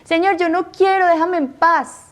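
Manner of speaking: high, pleading cry of no quiero; desperate pleading. Retold or imitated. Young woman begging the Lord to leave her in peace, desperate high plea. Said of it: "me estaba desesperando".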